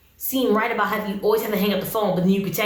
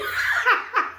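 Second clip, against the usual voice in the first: high-pitched burst of laughter; helpless high giggle; real laugh; 12 semitones higher than usual. Real, not acted. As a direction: crack up at something absurd. Laughing at the fake accent.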